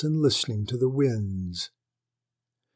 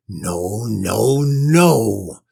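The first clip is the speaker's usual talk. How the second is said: angry refusal; 8 dB louder, much slower than usual. Acted. Lord shouting down his wife over the bride. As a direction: dig in and shout him down.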